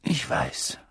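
breathy whisper, words catching; choked whisper. Acted. Old headmaster consoling the professor, in a choked whisper. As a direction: let the voice fail into a whisper. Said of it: "mit belegter Stimme".

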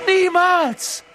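high, loud refusal; defiant shout. A narrator's reading. Harry refuses to give Voldemort the stone, shouting. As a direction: fling back a hard no.

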